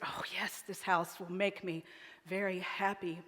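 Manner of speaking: soft breathy whisper, then quiet; whispered yes. Acted. Wife whispering her answer to the husband, quietly. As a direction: hush it out like a secret.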